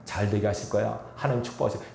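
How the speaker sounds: 격려하는 말. Shown as a demonstration. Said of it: "격려와 힘을 주는 말".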